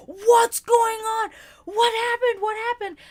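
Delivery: high, loud alarmed voicing of partner. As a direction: rush out shouting in worry.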